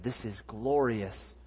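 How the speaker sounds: slow, hushed savouring of glorious; savoured and slow. Shown as a demonstration. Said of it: "Those are words to say from the deathbed".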